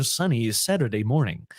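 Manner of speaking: American broadcaster sign-on; American media-speak, dropping at the end. Shown as a demonstration. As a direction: deliver it like a US TV presenter. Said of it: "That's the voice of all media people".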